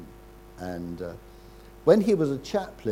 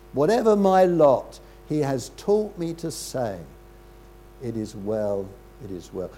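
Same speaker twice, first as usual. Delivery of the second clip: hymn recital. Acted.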